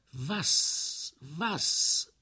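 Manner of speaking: high, shocked double question; stunned. A narrator's reading. Henri stunned by his friend's wild plan, shocked. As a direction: blurt it in disbelief. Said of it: "schmerzgebeugt durch dieses extravagante".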